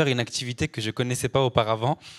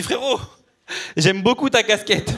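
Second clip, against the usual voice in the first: mock reassuring; 7 semitones higher, slower than usual. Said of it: "pour le rassurer, je lui dis".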